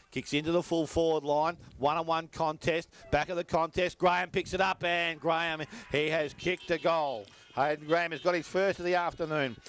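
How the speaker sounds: rising, urgent play-by-play; excited goal call. Acted. Calling a goal live.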